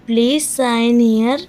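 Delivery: slow it down so learners can copy. Shown as a demonstration. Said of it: "repeated phrase for learners".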